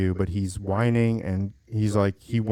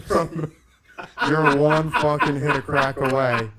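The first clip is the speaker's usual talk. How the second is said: laughing; 5 semitones higher than usual. Retold or imitated. Laughs while retelling his own joke.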